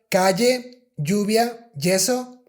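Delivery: calle, lluvia, yeso with a plain Spanish y, not sh; standard Spanish Y. Shown as a demonstration. Teacher contrasting it with the Argentine sh. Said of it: "So it's not like".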